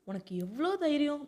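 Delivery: lightly acted indignant scolding, pitch lifting; mock telling-off like a mother; a touch of "how dare you" outrage; mild motherly scolding. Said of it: "அம்மாலாம் திட்டுவாங்க இல்லையா".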